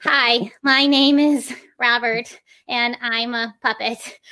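slow, stilted puppet speech, each syllable separate; syllable-by-syllable beginner puppet. Shown as a demonstration. Teacher imitating beginners with a puppet, slow and stilted. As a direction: plod through it one syllable at a time. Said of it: "they move the head with every single syllable".

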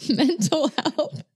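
high, drawn-out words through a laugh; breaking into laughter. Real, not acted. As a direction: crack up mid-recap. Cracks up while recapping sad story.

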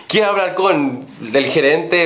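slow furious customer imitation; mock angry demand. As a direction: drag it out like an outraged customer. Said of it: "así súper enojado".

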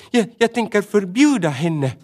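small rabbit standing her ground; a touch of stubborn resolve; firmly. Acted. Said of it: "sa hon bestämt".

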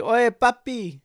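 high, loud Latino character impression; Luis Guzman. Recalling an actor for a friend, playful impression. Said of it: "He, like, talked like this".

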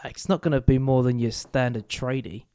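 put-on slipping into an Australian accent; a hint of put-on Australian; lightly Australian, accidental. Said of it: "I don't know why I've gone Australian".

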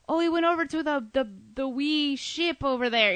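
a lightly voiced Scottish singer's "wee ship"; Scottish accent. Fan retelling the singer's stage chat in a mild Scottish accent. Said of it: "with her little Scottish accent".

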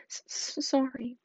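stammering sob; sobbed. Acted. Hagrid apologising to McGonagall, stammering sob. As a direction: choke out the word through tears. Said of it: "sobbed Hagrid".

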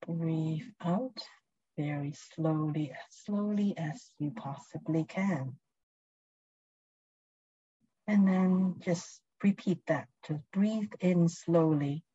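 calm, unhurried guiding voice; guided meditation. Acted. Leads a presence meditation.

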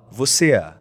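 Rio accent, extra A after the final vowel of "você é"; Carioca accent. Shown as a demonstration. Teaching how Cariocas add a vowel, Carioca accent on "você é". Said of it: "você coloca um A depois da vogal".

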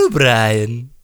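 lightly voiced O'Brien; O'Brien impression. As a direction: bark the name as a cartoon character. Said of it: "it's between those two".

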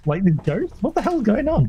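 high-pitched mock bafflement; retold bewilderment. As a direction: act out being lost by the plot. Replaying childhood confusion at the film.

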